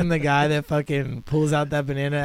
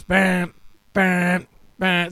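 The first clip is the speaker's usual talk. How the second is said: imitated chipper bangs; 4 semitones higher, 3 dB louder, much slower than usual. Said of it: "it goes".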